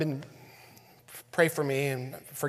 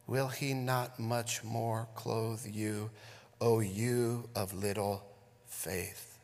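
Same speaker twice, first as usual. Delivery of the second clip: scripture reading. Acted. Pastor reading scripture to church, solemn and measured. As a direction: read the passage to the congregation with weight.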